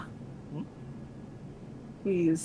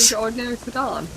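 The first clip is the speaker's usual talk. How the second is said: quick, higher, oddly lilting; odd sing-song delivery; 6 semitones higher, much faster than usual. Real, not acted. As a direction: say it in an oddly cheery way. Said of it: "I don't know why I said it like that".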